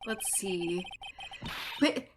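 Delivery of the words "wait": rude puppet voice. Acted. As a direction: bark at them like an insulted little dummy. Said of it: "I gotta figure out a puppet voice".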